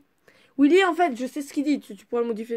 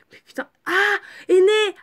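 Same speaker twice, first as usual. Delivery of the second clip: much higher, loud eureka cry; light-bulb moment, call it out; real realisation about the word; sudden realisation; 8 semitones higher, 8 dB louder than usual. Real, not acted. Realises the word's meaning.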